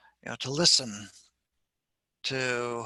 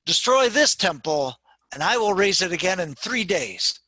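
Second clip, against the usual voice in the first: lightly acted, raised-voice answer; a touch of dramatic defiance; firm, defiant Jesus; 5 semitones higher, 5 dB louder than usual. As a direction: answer the challengers with a slightly higher, louder voice.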